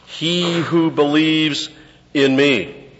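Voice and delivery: high, slow, drawn-out reading of Jesus' words; solemn Jesus quote. Acted. Preacher voicing Jesus to Martha, slow and high. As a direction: stretch each word out as Jesus. Quoting Jesus, slowed and raised.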